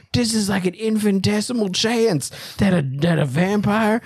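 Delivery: high, awestruck disbelief; hammed-up wonder at destiny; mock amazement. Acting the professor amazed by fate.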